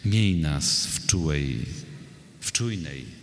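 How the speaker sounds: measured, solemn reading of a poem; poetry recitation. Acted. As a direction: recite verse line by line, with deliberate pauses. Poet recites own poem. (recytacja wiersza)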